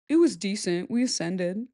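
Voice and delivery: flat deadpan quote; bored, even delivery; monotone voice. Retold or imitated. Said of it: "monotone voice".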